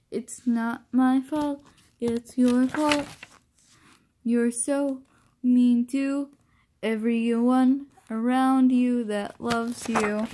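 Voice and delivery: a hint of a dragged-out reproach; slow, deliberate blame, lightly voiced; slow accusing character. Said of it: "is what the character said".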